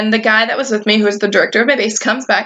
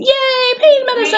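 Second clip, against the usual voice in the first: mock delight; 14 semitones higher than usual. Relief at getting pain medicine.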